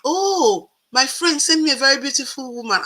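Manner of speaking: high, excited gush of praise; imitating an admiring man's delight; gushing compliment. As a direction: mimic his delighted admiration. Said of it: "he said".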